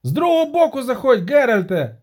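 very high, loud squeal; shriek. Acted. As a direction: shriek a command during the chase. Denti continues shrieking.

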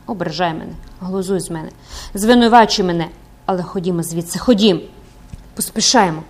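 impassioned pleading, rising to urgent bursts; desperate priest urging. Acted. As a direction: urge her to flee for her life. Priest urges her to flee. (священик гаряче благає тікати)

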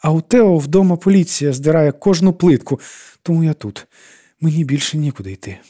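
високий сварливий голосок; скаржитися тонко й сварливо; тоненький сварливий голос. A narrator's reading. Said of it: "тоненьким, сварливим голосом". (тоненьким, сварливим голосом)

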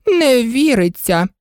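sympathetic. A narrator's reading. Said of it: "з співчуттям запитала королева".

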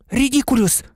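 mild high yell; Parvati's cry. A narrator's reading. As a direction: cry out the spell on a high note. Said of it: "крикнула Парваті".

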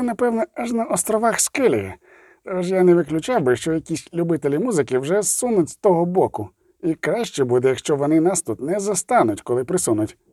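a hint of a disgruntled dwarf; grumbling dwarf. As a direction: complain about the racket, then reason it out. Zoltan argues for leaving.

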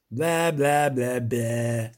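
slow drawn-out angry bleating; furious goat bleat. A narrator's reading. Creature rages at the witcher, slow angry bleat. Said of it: "люто заклекотіло створіння".

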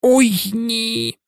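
mild groan. A narrator's reading. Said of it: "простогнав він".

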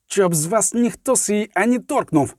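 вищий голос, стримано-сердита заборона; гарикни застережливо, але без крику; сердите гарикання. A narrator's reading. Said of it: "гарикнув Скиглик". (сердито гарикає, не кричачи)

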